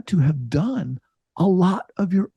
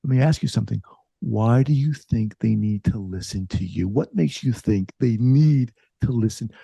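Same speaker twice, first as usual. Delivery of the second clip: lower, measured questioning; imitated calm, pointed questioning; calming supervisor; 4 semitones lower than usual. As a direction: voice a supervisor settling someone down. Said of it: "she calmed me down".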